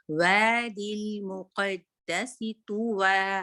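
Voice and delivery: slow chanted recitation; slow Quran recitation. Shown as a demonstration. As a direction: draw out every syllable. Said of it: "वाओ again watch".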